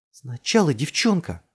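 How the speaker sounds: high, loud, drawn-out call. A narrator's reading. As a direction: try to halt him with a shout. Calling to stop climber. (протяжно, громко окликает)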